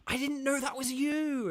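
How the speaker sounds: high, lightly mocking surprised voice; hammed-up high-pitched quote; imitating surprised listeners. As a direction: lift into a playful imitated surprise. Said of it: "I've heard people be like".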